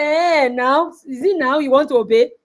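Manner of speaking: teasing scornful mother voice; mock her sudden obedience. Mother teasing her begging daughter, scornful. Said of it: "I said".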